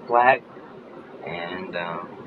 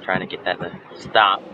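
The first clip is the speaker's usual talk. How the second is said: speaking through an itchy throat; scratchy, irritated throat. Real, not acted. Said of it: "It's itchy".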